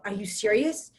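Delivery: indignant retelling of an angry man's rebuke; retold indignation. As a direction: act out an incredulous telling-off, raising the volume. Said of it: "gets even more mad".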